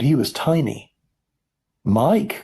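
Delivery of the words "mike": higher, urgent call; anxious cry. A narrator's reading. Mother seeing her tiny son, anxious cry. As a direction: call the name with worry. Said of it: "cried Missus T V".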